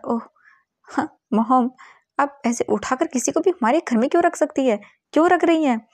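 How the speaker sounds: rising from a protest to a loud, high angry demand; son's protest building to a shout; indignant outburst. Acted. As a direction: push back at mom harder with every word. Son arguing with his mother.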